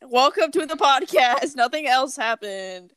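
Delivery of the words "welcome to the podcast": announcer voice. Acted. Restarted podcast intro.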